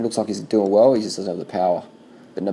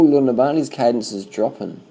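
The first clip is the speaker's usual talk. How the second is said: quick, higher, louder call of alarm; excited call-out; 4 semitones higher, 4 dB louder than usual. Real, not acted. Commentator spotting Nibali slowing on the climb, excited. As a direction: blurt it out as you spot it happening.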